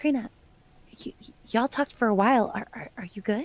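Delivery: hushed, soft half-whisper. Quietly checking on a companion who talked for a while: half-whispering. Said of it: "I'm gonna whisper over at Karina".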